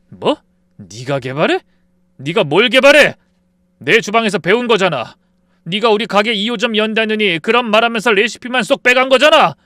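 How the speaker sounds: high, loud yelling accusation; shouting at the friend who stole his recipe; furious shout. Acted. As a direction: blast him with the betrayal.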